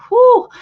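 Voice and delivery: high, loud "whew" of real feeling; emotional whew. Real, not acted. Host getting a little emotional over viewer's story, emotional whew. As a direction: blow out a high whew to steady yourself.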